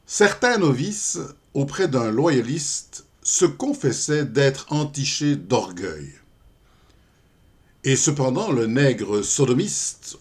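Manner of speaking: deliberate, often drawn-out verse reading; poem recitation. Acted. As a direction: declaim the verse line by line. (récitation de poème, déclamée et posée)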